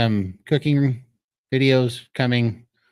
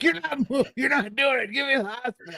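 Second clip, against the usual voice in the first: whiny patient voice; 12 semitones higher, 3 dB quieter than usual. Retold or imitated. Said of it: "And he's like".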